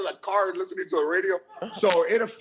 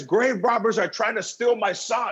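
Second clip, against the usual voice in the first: laughing headline read; 4 semitones higher than usual. Retold or imitated. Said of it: "the Globe has a picture of his mom".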